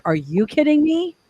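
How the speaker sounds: high mock echo of the boss's question; mocking disbelief. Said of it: "And I'm like".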